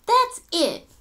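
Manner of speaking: bright high exclaim; girl declaring her plan; eager announcement. A narrator's reading. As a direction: burst out with the idea.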